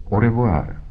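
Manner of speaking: a lightly voiced detective's goodbye; Holmes's farewell. A narrator's reading. Holmes takes leave of his visiting client, lightly voiced farewell. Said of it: "řekl Holmes".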